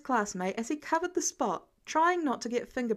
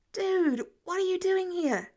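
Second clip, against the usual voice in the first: surprised; 8 semitones higher than usual. Acted. Peter surprised to see Harry, startled. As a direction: caught off guard by his friend. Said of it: "surprised to see the Osborn heir".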